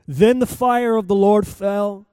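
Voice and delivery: measured public Bible reading, phrase by phrase with long pauses; deliberate, declamatory pulpit reading; solemn scripture reading. Acted. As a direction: read it out to a congregation, lifting key phrases and letting endings fall. Reads scripture aloud to congregation.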